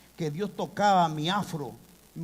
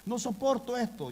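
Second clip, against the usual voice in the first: crying out; 5 semitones higher than usual. Retold or imitated. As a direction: cry out to the Lord in mild retold despair. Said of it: "Y yo lloraba".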